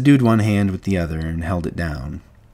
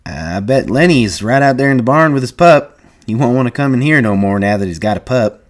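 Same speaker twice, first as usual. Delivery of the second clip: lightly amused, louder and higher; chuckling; 5 semitones higher, 6 dB louder than usual. A narrator's reading. George talking of Lenny and his pup, amused. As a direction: share an amused guess. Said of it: "George chuckled".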